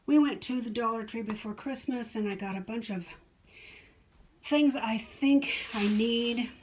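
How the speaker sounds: out of breath from the stairs; slightly winded, short breaths; shallow breathing. Real, not acted. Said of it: "Sorry, I'm out of s-, breath".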